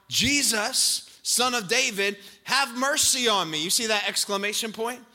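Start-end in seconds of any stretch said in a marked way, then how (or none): 0.1-3.6 loud pleading cry; shouting. Acted. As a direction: call out desperately for mercy. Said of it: "he began to shout".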